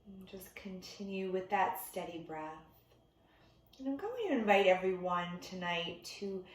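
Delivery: unhurried meditation teacher, long pauses between instructions; guided meditation. Real, not acted. Meditation teacher settling listeners into breath before bed, calm guided delivery. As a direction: ease them gently into stillness, leaving room to breathe.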